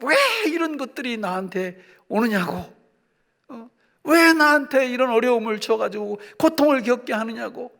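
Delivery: acted-out protest at God; mock grumbling, pushing on the WHY; resentful complaint. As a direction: complain indignantly, mildly hammed-up. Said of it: "즉각 원망 불평합니다".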